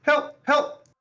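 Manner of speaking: shrieking in panic, very high; screaming to get the weasel off; phobic panic. Acted. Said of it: "she screams".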